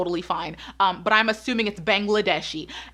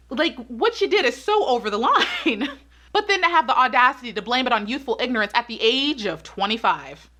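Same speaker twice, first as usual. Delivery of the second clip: laughing while talking. Real, not acted. Laughing in disbelief at excuse.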